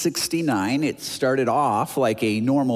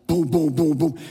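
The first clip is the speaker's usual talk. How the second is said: loud repeated "boom" noises; imitated banging; 5 dB louder than usual. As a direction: imitate heavy thuds with your voice. Imitates noise at back door.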